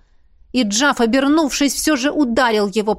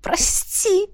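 высокая мольба со слезами; взмолись сквозь плач; отчаянная мольба; 9 semitones higher than usual. Acted. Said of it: "отчаянно взмолилась она". (Миранда в слезах просит прощения у Джафа)

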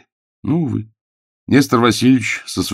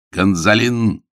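bark; 3 semitones higher, much slower than usual. Acted. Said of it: "рявкнул Загорский".

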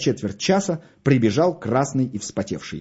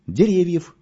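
name squeezed out on a strained grunt, higher; 7 semitones higher than usual. A narrator's reading. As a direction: groan the name out as if it hurts. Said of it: "кряхтя ответил Мишка".

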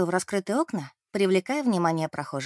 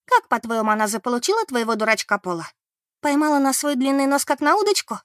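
mocking gossip; 5 semitones higher, 4 dB louder than usual. Beth mocks rival.

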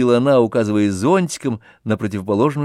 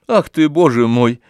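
impatient, louder exclamation; 2 semitones higher, 5 dB louder than usual. A narrator's reading. Oblomov impatiently interrupts Olga, impatient. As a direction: cut in, losing patience. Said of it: "с нетерпением".

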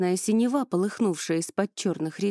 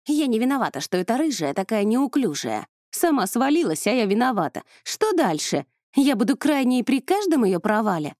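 indignant outburst; 4 semitones higher, 5 dB louder than usual. Acted. Ingrid defends herself in quarrel.

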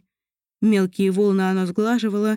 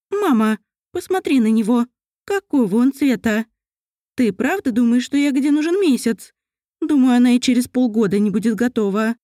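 put-on whiny young elf; christmas elf; 3 semitones higher than usual. Mariel complains to mother.

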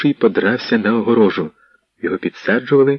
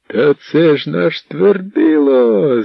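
higher, very slow exclaimed recognition; joyful yell; 7 semitones higher, 3 dB louder, much slower than usual. Acted. Tall lad recognising his friend, slow joyful cry. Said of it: "заволав парубок".

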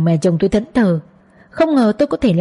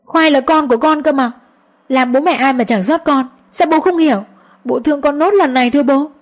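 pleading; 5 semitones higher than usual. Acted. Con dâu van xin bố chồng.

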